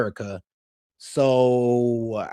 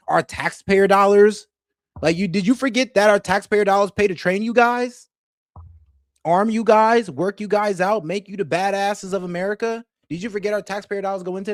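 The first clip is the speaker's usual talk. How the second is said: louder and higher; raised indignant voice; heated rant; 4 semitones higher, 4 dB louder than usual. Real, not acted. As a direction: hammer the taxpayer point. Ranting at a veteran.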